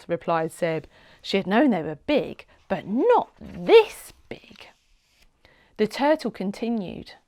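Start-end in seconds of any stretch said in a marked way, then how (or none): 2.7-4.7 awed whisper. A narrator's reading. Awed aside.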